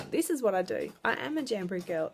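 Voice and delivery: mildly assertive, steady statement; confident declaration. Acted. Telling people what she does, with confidence. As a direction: say it with a touch of pride. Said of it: "the confidence to say to people".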